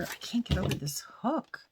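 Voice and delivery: high unvoiced whisper; awed whisper. Real, not acted. Whispering to viewers, awed by the hook. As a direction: breathe it out in awe.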